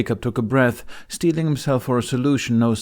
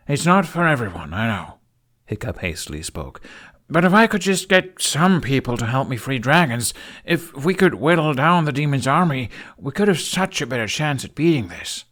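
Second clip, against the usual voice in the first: higher, louder eager pleading; young hero hastily pleading, raised voice; hasty Hiccup; 5 semitones higher, 3 dB louder than usual. A narrator's reading. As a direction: rush to win them over.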